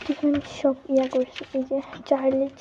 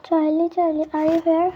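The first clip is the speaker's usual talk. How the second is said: calling out; 3 semitones higher, 5 dB louder than usual. Pretend. Calling the spirit again, louder.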